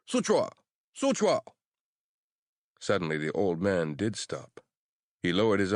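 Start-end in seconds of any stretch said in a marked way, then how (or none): 0.1-1.4 high, loud shriek; shrieking cry. Acted. Crazed old man shrieking at the seals. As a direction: shriek it out wildly.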